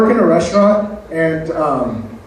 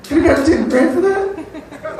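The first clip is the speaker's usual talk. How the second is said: rueful woman; 11 semitones higher, much slower than usual. Retold or imitated. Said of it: "they're thinking".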